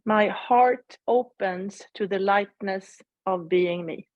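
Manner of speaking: unhurried second recitation of the mantra; slow mantra repeat. Shown as a demonstration. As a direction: repeat the mantra slowly, savouring it. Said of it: "the mantra that I'm using is the following".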